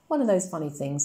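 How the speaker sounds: lightly voiced, smug little know-it-all; a hint of a boy playing the grown-up; would-be grown-up voice. Max teasing his sister, in a would-be grown-up voice. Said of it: "said Max in an irritating, would-be grown-up voice".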